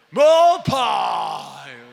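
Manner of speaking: loud put-on pious shout; fake prayer voice. Pastor mocking believers' prayer faces, loud put-on shout. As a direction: ham up the holy cry. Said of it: "Muda a voz, faz careta".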